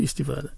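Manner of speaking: "استفاده" as istifada; original Arabic form. Shown as a demonstration. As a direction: say "استفاده" with i's instead of e's. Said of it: "این به این شکل بوده". («استفاده» به شکل اصلی، ایستیفادَ)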